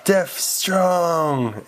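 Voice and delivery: a triumphant Hulk slogan; Hulk battle cry. Acted. Deaf Hulk celebrates after the police retreat, lightly voiced.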